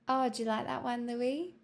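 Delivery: lilting Scouse accent demo. Shown as a demonstration. Streamer teasing a viewer, Scouse accent. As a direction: tease lightly in a Scouse accent. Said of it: "like, a Scouser accent too".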